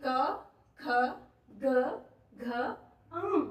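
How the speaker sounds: क, ख, ग, घ, अं said singly, each with a clear pause; sounding out letters. Shown as a demonstration. Teacher asks students to try the letters, slow and distinct. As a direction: pronounce each letter from the throat, one at a time. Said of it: "उच्चारण करके देखिए".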